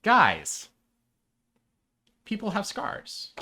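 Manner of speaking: high, excited outburst; excited exclaim. Retold or imitated. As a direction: blurt it out in amazement. Retelling his own excited reaction.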